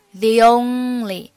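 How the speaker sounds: "The only" joined by a light y, slow; y glide. Shown as a demonstration. Teacher slowly linking "The only" with a glide. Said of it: "中间呢还是要加一个一的半元音".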